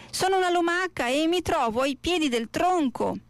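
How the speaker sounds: high small snail voice; high-pitched storybook snail; little snail. A narrator's reading. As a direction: answer up in a small, high register.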